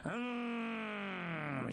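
long drawn-out "hmm"; long pondering hum. Acted. Yang Lin's man mulling over Qin Qiong, drawn-out hum. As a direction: draw out a thinking hum. Character broods before inner speech.

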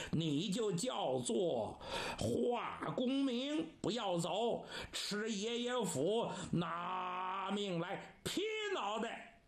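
stretched, theatrical attack cry; battle taunt. Acted. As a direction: draw out the words before the strike. Cheng attacks with his axe.

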